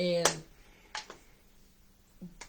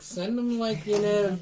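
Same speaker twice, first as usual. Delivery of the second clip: rising, louder plea to God; half-joking prayer getting higher; pleading to God; 4 semitones higher, 6 dB louder than usual. Retold or imitated. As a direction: beg heaven with mounting urgency. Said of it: "I sit there and go".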